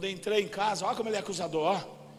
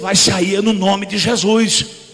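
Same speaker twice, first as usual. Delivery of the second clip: commanding exorcism shout; 12 dB louder, slower than usual. Retold or imitated. Preacher shouting at the demon to leave his sister. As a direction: command the demon out with full force.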